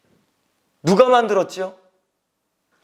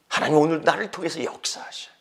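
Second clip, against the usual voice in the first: ordinary talk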